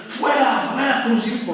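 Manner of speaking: high mock yell of the crowd with a laugh; half-laughing retold crowd cry; mock crowd shout. The crowd demanding crucifixion, a half-laughing mock yell. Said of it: "¿Qué decían?".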